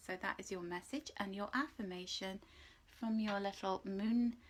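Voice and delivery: ordinary talk, nothing marked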